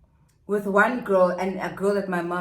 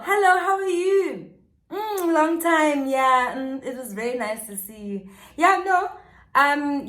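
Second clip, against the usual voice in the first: high, bright fake-polite chatter; sweet visitor act; 3 semitones higher than usual. Narrator pretending to greet the mom at the door in a high, chirpy voice. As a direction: put on a cheery act for the mom. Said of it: "I would have been knocking".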